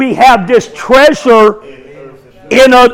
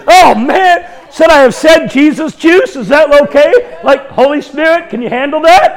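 mock dismay; 4 semitones higher than usual. Acting out his second-guessing aloud.

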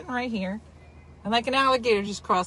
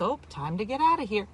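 real calm. Retold or imitated. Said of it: "Real calm".

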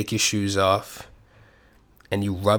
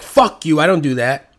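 louder, indignant mock retort; mock defensive outburst; 3 semitones higher, 6 dB louder than usual. To friends who call him out, a louder mock defensive outburst. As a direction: fire back like you've just been caught out.

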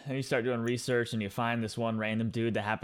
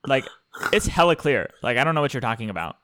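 mock West Coast lilt with punchy openings; West Coast accent; 5 dB louder, faster than usual. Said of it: "West Coast accent".

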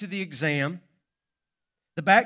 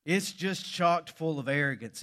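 ordinary talk, nothing marked

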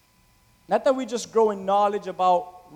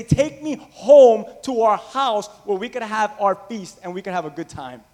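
higher, a hint of an impatient bride; lightly voiced eager bride; 4 semitones higher, 4 dB louder than usual. Bride at the aisle urging her groom, impatient longing. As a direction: plead like a bride who can't wait. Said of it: "what does she tell him".

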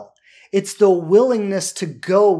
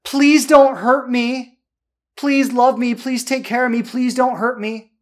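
higher, louder, slow whiny plea; desperate begging; 5 semitones higher, 5 dB louder, slower than usual. Retold or imitated. Coach contrasting neediness with vulnerability, begging slowly. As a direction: drag out the begging like a clinging lover. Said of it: "desperation is like".

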